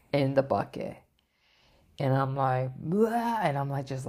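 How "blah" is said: high mock vomiting noise; imitated retching. Recounting being sick in the bucket, mock retch. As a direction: act out throwing up with a blah. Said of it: "I start throwing up ferociously".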